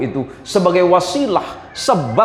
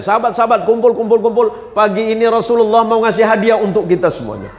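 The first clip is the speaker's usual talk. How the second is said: excited calling out; 7 semitones higher than usual. Acted. Companion calls others together.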